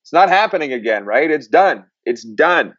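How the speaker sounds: relaxed mock reply, it's fine now; laughing guy's reassurance. The radio guest shrugging off his jail story, a lightly mimicked easy reassurance. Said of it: "And he's like".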